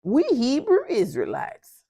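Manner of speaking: high, drawn-out mock voice of the husband; imitating husband. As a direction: play him slow and high, announcing it. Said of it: "He's like".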